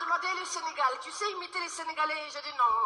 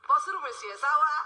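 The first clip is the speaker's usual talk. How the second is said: put-on Malian accent; 4 dB louder than usual. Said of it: "Ça donne, euh".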